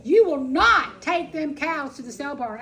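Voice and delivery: loud, firm order; retold order to her husband, loud and firm; firm command. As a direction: lay down the law loudly. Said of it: "I said".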